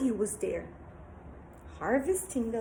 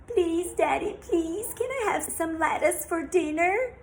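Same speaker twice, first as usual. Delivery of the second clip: put-on pleading girl; 6 semitones higher, 3 dB louder than usual. Girl begging father.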